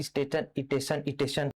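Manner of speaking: स्टेशन said as "isteshan" with an added leading i, softly; soft mock call of "isteshan"; auto driver's way. Teacher imitating auto drivers calling out स्टेशन as "isteshan". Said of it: "auto वाले सुनहा".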